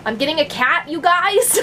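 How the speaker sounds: bursting with the news; excited announcement. Real, not acted. Telling her viewers she's getting a cat, excited.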